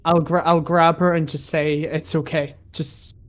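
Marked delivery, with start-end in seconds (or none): 1.8-3.2 soothing hush. Acted. Player calms frightened maid.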